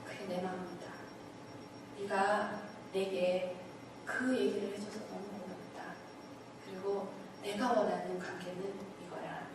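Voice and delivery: soft, hushed fatherly voice; gentle voice of God. Retold or imitated. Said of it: "하나님께서 저한테".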